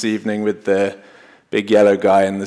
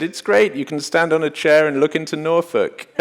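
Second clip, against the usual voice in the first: quoting Bill Bryson; 7 semitones higher than usual. Retold or imitated. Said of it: "Bill Bryson ... he said".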